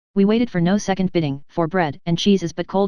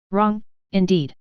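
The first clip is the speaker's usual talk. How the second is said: slow, ill-pleased grumble under the breath; grumbling; slower than usual. A narrator's reading. Alan grumbles to himself while feeding the lad, slow ill-pleased grumble. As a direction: grumble it to yourself, slowly and displeased. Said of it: "he kept grumbling to himself".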